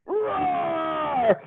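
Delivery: mock roar then slow growly question; a bear mother scolding, drawn out; growling Mama Bear. Mama Bear growling at her son, hammed-up. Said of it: "growled Mama Bear".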